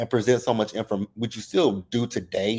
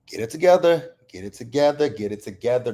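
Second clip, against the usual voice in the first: real tears held back, calming down; fighting back tears; 2 semitones higher than usual. Real, not acted. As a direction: talk yourself out of crying. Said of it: "I'm trying my hardest not to cry".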